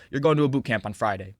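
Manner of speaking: composed, matter-of-fact imitation of an officer; very calm. Probation officer sentencing a lippy kid, very calmly. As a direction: state it calmly, no threat in it. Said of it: "She just very calmly said".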